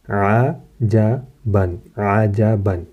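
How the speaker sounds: عجباً drawn out very slowly, falling; slow Arabic reading. Shown as a demonstration. Teacher joining the spelled word for students, slowly. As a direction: linger on every sound of عجباً. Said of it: "ہجے کے ساتھ کیسے پڑھیں گے".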